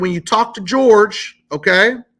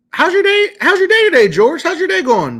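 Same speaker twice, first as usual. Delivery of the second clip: much higher, bright sing-song friendliness, pitched way up; overly friendly; 10 semitones higher, 3 dB louder than usual. Shown as a demonstration. Caller sweet-talking the credit bureau agent, high and eager. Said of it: "very friendly".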